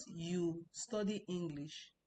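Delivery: You study English said very slowly; slowly spelled out. Shown as a demonstration. Teacher contrasting a statement with a question, very slow. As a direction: drag out each word of You study English. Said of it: "It's not".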